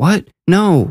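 high-pitched, overly defensive, protesting far too much. Matthew answers Sly's accusation: overly defensive. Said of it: "Matthew sounded too defensive".

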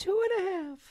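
"2.5" said high-pitched. Announcing many 2.5s on the board, high-pitched voice. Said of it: "we get to say that in a high pitched voice".

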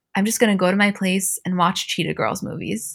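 normal talking voice

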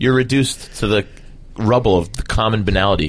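usual speaking voice

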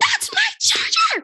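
very high, piercing high-pitched scream. Retelling chasing someone around the house over a charger: retelling a scream. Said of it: "I'm chasing him and I'm screaming".

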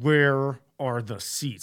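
words forced through clenched, gritted teeth. Retelling the mom's question on reaching the third tier, imitating speech through teeth. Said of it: "Like through her teeth".

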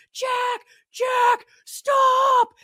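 mock very high shrill yelling, long stretched stop. Retelling a neighbor chasing her son around outside, retelling a neighbor's scream. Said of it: "she's screaming".

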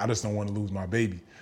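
put-on crying, tearful voice. Retelling what a crying mother said by the window: imitating someone crying. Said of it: "And she started crying".

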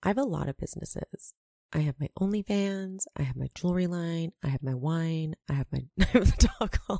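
soft, hushed, near half-whisper. Imitating a TV personality's quiet voice: Larsa voice, near half-whisper. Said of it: "Let me try it again".

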